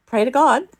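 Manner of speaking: high, loud panicked order; retold urgent command. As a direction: cry it out to your child in sudden danger. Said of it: "Like, I was calm".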